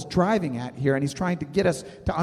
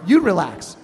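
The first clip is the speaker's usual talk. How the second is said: louder snapping comeback; angry retort; 2 semitones higher, 6 dB louder than usual. Retold or imitated. Answering the person who says relax, louder irritated snap. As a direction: throw it back at them, irritated. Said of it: "pop 'em right in the nose and say".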